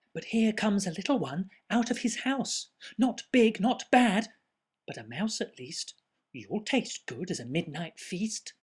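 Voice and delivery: put-on gloating monster child. Child menaces the mouse.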